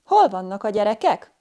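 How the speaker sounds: "Hol" pitched high, then "vannak a gyerekek" coming down; rise on question word. Shown as a demonstration. Teacher giving a question-word example, high rise on "Hol". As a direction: lift the question word "Hol" above the rest. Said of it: "has a higher rise on the question word".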